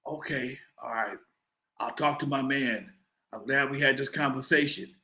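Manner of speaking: a threatening man suddenly gone mild; calmed down. Retold or imitated. Caller calmed down.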